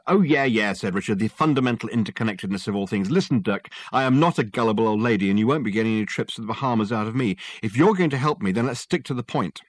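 impatient sceptic cutting in; lightly voiced doubter, brisk in places; impatient Richard. Client cutting short the detective's theory, impatient.

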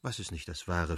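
puzzled. A narrator's reading. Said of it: "fragte Warenka verdutzt".

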